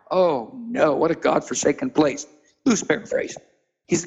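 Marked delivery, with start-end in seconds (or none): 0.1-2.3 whispered dismay. Retold or imitated. David dismayed at Lodabar.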